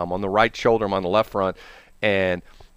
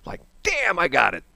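surprised relief; 8 semitones higher than usual. Real, not acted. Tire finally falls off.

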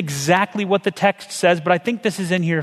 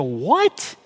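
confused disbelief; 5 semitones higher, slower than usual. Retold or imitated. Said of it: "you just go".

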